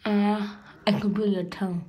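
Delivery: talking while flossing teeth; fingers in mouth. Real, not acted. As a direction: hand blocking the lips. Seen 1: fingers and floss inside mouth between braces throughout the words.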